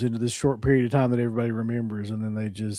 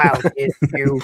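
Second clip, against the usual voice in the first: mechanical artificial-larynx voice-box voice; 2 semitones higher, 4 dB louder than usual. Showing how to do the villain's voice from the end scene: Chong Li voice. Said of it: "Chong Li voice".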